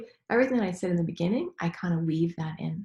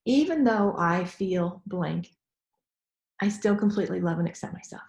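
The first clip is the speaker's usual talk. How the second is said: slow setup phrase. Shown as a demonstration. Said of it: "so you wanna take".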